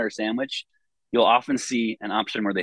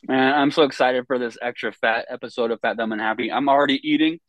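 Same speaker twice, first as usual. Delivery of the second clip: talking while chewing; words around a bite of sub; mouth full. Real, not acted. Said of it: "I can tell".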